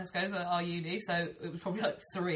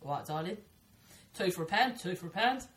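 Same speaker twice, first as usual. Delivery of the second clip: Cockney market trader's cry; London street-seller patter; London accent. Shown as a demonstration. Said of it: "Like Londoner".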